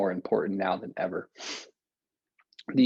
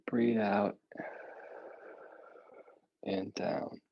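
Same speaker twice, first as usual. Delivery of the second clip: whispering; 7 dB quieter, much slower than usual. Acted. Breathing cue whispered.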